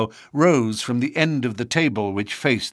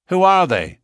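raised, urgent question; questioning lodge member; 10 semitones higher, 6 dB louder than usual. A narrator's reading. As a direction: ask it sharply, higher. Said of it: "asked someone".

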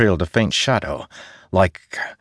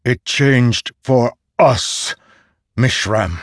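tender; 4 semitones higher, slower than usual. Acted. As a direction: say it gently with love. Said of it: "then attuned love".

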